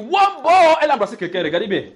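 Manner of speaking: high, loud, fast scandalised telling; excited gossip blurting news; mock gossip. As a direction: rush to spread the scandal. Gossip spreading news of a kiss.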